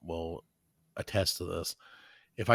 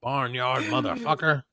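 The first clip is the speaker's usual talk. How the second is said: slow drawn-out mock insult; a slow hammed-up Dolomite taunt; Dolomite-style insult; slower than usual. Friend hurls a hammed-up Dolomite taunt, slow and drawn out.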